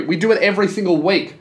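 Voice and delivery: ordinary talk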